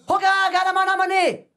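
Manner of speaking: slow, drawn-out mock chief's call; hammed-up drawn chief's call; chief calling again. Chief calls his wife again.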